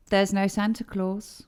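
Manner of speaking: normal talking voice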